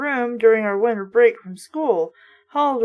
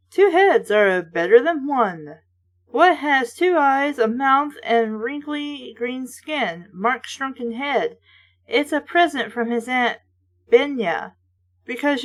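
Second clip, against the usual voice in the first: blurb read. Acted. Reading the back cover to viewers, teasing.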